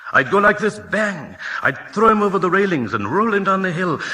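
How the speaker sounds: put-on high, loud, eager boy bragging; excited boast. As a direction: shout it out like a thrilled kid. Boy boasts about fighting hippo.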